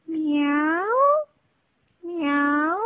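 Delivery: maullido suave de gato amarillo; maúlla como un gato en la ventana. Acted. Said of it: "y le dijo". (el gato maúlla al cachorrito, tierno maullido)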